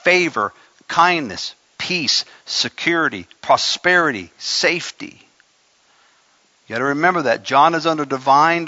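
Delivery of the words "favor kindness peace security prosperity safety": voicing God. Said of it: "he's saying".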